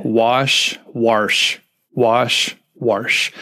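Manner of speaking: repeating wash as a warm-up; vocal warm-up word. Shown as a demonstration. Host warming up the guest's voice: repeated "wash". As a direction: say "wash, wash, wash" to loosen the voice. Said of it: "So I like to say wash".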